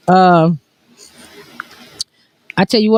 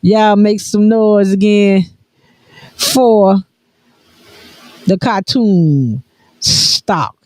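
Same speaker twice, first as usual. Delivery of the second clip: dueling hype announcers; 3 semitones higher, slower than usual. Acted. Hyping the audience.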